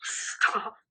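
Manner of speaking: sharp gasp into a whispered stop. Real, not acted. Friend seeing Arizona on the gift, gasping stop. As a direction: catch your breath, overwhelmed.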